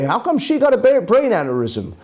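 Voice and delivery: mock-baffled question, starting high then dropping; puzzled questioning. People scratching their heads over an untimely death, puzzled. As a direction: ask it like someone scratching their head. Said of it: "When we scratch our heads and say".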